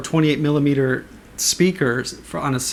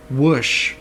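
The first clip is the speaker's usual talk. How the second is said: vocal whoosh. Shown as a demonstration. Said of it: "keep hearing this Darth Maul kind of, like".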